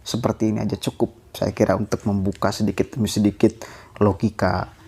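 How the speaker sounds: talking while smoking a cigarette; relaxed, smoking between words; cigarette in mouth. Real, not acted. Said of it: "saya sambil merokok ya". (bicara sambil merokok)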